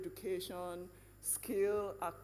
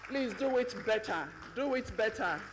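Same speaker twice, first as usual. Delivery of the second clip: rally the audience for more applause; loud urging call; 6 dB louder than usual. Real, not acted. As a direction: call out to the crowd, louder.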